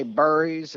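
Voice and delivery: BURRIES said the East Tennessee way, with an "ur" vowel; Tennessee-style BURRIES; regional pronunciation. Retold or imitated. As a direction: mimic "burries" for berries. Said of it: "they say".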